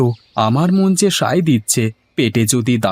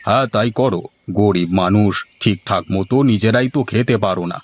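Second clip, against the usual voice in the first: lightly lowered headman voice, brisk and dismissive; a hint of a condescending village elder; 3 semitones lower than usual. Headman tells poor farmer to hurry, lightly lower voice. Headman advises selling the cow.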